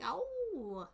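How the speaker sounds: high drawn-out howl. Shown as a demonstration. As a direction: let out a little demonstrating howl. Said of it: "you know, you like".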